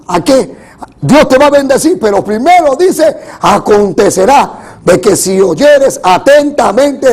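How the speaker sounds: forceful, insistent sermon voice; preaching. Real, not acted. Preacher warns congregation against the prosperity gospel, preaching. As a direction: press the point on the congregation in punchy phrases.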